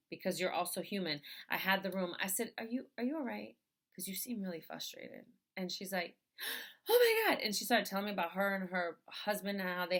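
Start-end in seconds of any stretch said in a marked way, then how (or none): 2.6-5.3 gentle check-in. Retold or imitated. Retold caring question to upset cashier. 6.4-7.4 gasp, then a high, loud "oh"; mimicking a startled, overwhelmed reply; sudden high burst after a sharp inhale; retold gasping outburst.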